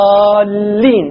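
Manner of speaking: الضالين with the long alif stretched slowly into the doubled lam; الضالين with a long, drawn-out madd before the doubled lam; Quranic recitation. Shown as a demonstration. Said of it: "الألف ساكنة واللام ساكنة".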